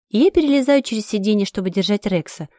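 usual speaking voice

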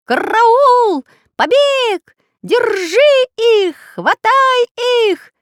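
very high, loud, slow squawking alarm; parrot alarm. Acted. Parrot raising alarm about escape. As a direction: screech the alarm wildly. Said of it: "прыгал по комнате, как сумасшедший".

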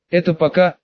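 plain reading voice

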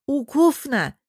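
put-on lisping child through a mouthful of cake; child talking with mouth full. Little Bosya, mouth full of cake, answers grandma with a lisp. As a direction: chew the word like a little boy stuffed with cake. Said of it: "Крошки полетели из Босиного рта".

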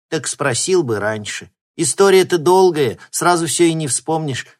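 a hint of an old granny promising; grandmother. A narrator's reading. Grandma promising her grandson a story, lightly voiced. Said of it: "пообещала бабушка".

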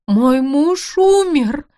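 громкий высокий надрывный вопль, медленно; выкрикни в истерике, растягивая слова; истеричный стон. Acted. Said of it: "простонала она". (жена в истерике о погибшем муже: надрывный вопль)

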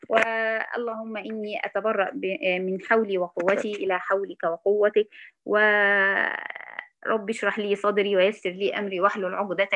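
measured prayerful recitation; opening prayer. Acted. Teacher opening the lesson with a prayer.

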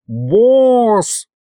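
high-pitched yell for attention. A narrator's reading. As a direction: yell out to the boss. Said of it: "заорал Аристофан". (громкий высокий окрик)

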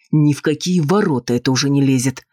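plain reading voice

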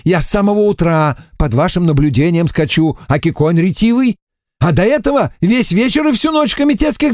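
a prisoner pleads his innocence; whiny emissary. A narrator's reading. Эмиссар жалуется лейтенанту, ноющим голосом.

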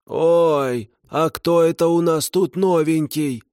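put-on high, rustling old ghost woman. A narrator's reading. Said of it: "прошелестел призрак".

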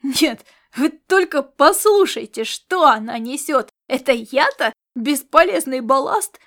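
loud indignant yell. A narrator's reading. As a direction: bellow it to the whole room. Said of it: "завопил он".

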